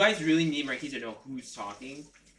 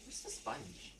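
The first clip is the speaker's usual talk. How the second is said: far from mic; 4 semitones lower, 18 dB quieter, slower than usual. Real, not acted. Mic turned toward the basin.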